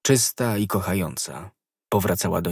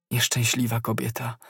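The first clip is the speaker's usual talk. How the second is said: whisper; 5 dB quieter than usual. A narrator's reading. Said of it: "szepnął Athos".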